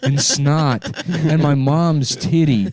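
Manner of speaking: grandpa spiraling through gross memories; manic grandpa. Acted. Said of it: "grandpa rambling".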